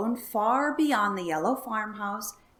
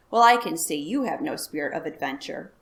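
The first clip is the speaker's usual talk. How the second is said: low, louder grumble; grumpy; 4 semitones lower, 5 dB louder than usual. Acted. Farmer grumping at his wife, a touch of gruff complaint. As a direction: grump at her, a touch sulky. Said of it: "grumped Mister Wagon Wheel".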